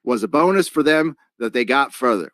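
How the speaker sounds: lightly put-on, bad Australian accent; terrible Australian accent. Livestream host reading a viewer's paid message, terrible Australian accent. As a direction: read it in a half-hearted Australian accent. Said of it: "I'm gonna do a terrible Australian accent".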